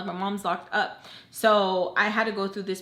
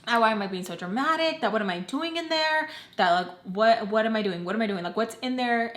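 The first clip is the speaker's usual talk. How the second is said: retold scolding. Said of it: "Baltimore was getting so mad".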